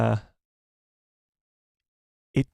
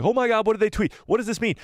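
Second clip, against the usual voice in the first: excited fans; 9 semitones higher than usual. Retold or imitated. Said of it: "everybody's like".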